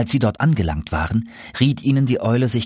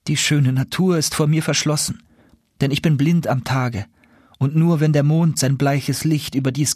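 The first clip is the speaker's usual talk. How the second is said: lightly voiced lamenting princess; a hint of a mournful enchanted owl; sorrowful owl princess; 4 semitones higher than usual. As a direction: tell of your lonely fate, sadly. Owl princess laments her lot.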